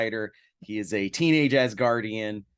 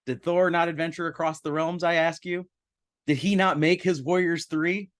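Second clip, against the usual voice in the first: lofty Asgardian boast; 5 semitones higher than usual. Acted. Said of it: "I don't have time for the home life".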